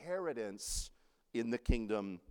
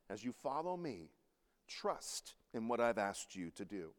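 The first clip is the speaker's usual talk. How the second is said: tender God voice; 2 semitones lower than usual. Retold or imitated. God speaks to believers.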